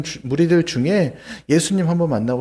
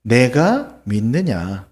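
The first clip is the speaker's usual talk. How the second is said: slow solemn question; 4 semitones lower, much slower than usual. Acted. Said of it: "예수님께서 이렇게 물으셨대요".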